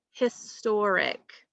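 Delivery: "historic" slowly as one joined word; measured, whole-word "historic"; slow model word. Shown as a demonstration. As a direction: say "historic" carefully for a class to repeat. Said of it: "let's say the word historic".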